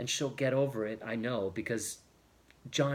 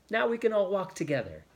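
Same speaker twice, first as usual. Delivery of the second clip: put-on higher-pitched, eager young woman's invitation; pleased, inviting; 7 semitones higher, faster than usual. A narrator's reading. Judith welcomes her visitor for the walk, pleased and inviting. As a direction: lift it up into a glad invitation. Judith happily greets John.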